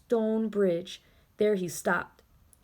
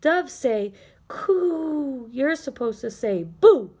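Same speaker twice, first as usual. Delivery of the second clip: dove explaining, Boo loud; 4 semitones higher, 5 dB louder, slower than usual. Acted. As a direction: teach him like a gentle dove. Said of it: "ruffled its feathers and said".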